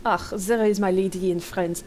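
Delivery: put-on slow, heavy German accent; thick German accent. Older gentleman greeting his friends, thick German accent. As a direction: lay on a German accent, unhurried. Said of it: "with a thick German accent".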